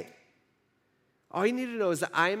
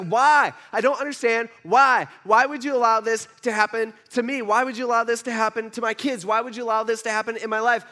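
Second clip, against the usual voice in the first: louder, pleading cry of why to God; 4 semitones higher, 4 dB louder than usual. Retold or imitated. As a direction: cry out to God, demanding an answer. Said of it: "He starts crying out to God".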